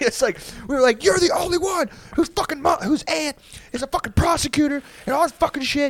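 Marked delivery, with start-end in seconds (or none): 1.0-5.9 mock, high, furious group yelling. Retelling how everyone in the car yelled at him, imitating people yelling. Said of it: "And we're all like yelling at him".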